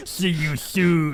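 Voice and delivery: slow creepy threat voice; Taken voice. Retold or imitated. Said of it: "like, the Taken voice".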